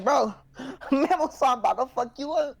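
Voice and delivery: mock warning. Retelling own warning to friend.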